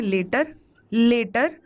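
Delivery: लेटर with a long "ay" in the first syllable; long-vowel pronunciation. Shown as a demonstration. Teacher clearing up pronunciation for students, लेटर said as "lay-ter". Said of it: "pronunciation clear कर दूं".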